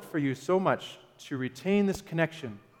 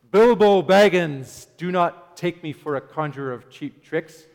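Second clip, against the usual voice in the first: a hint of a booming wizard, louder on the name; booming Gandalf; 8 dB louder than usual. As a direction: lightly imitate a wizard's booming rebuke. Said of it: "he speaks with a booming, loud voice".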